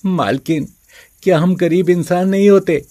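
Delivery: a hint of a hurt plea; pleading servant. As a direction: ask the mistress desperately.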